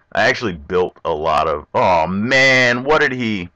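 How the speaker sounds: ordinary talk, nothing marked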